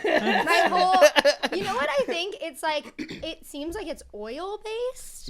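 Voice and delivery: laughing. Real, not acted. Tongue burning from hot sauce.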